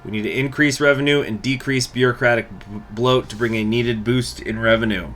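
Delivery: reads the game text as a formal proclamation; event text read. Acted. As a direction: declaim it like a decree. Reads focus text aloud.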